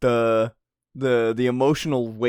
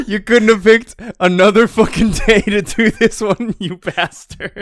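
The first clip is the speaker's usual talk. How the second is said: mock outrage; 8 semitones higher, 9 dB louder than usual. Mock rage at the author.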